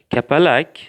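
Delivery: kapalak said loud and clear, final k crisp; careful Uzbek. Shown as a demonstration. Teacher showing the class, kapalak said carefully and loud. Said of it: "Pay attention".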